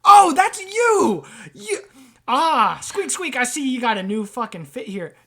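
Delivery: loud, high cry of recognition; excited rat trader. Acted. Rat suddenly recognising Sam, loud and excited. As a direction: exclaim as a rat spotting the culprit. Game master voices rat character.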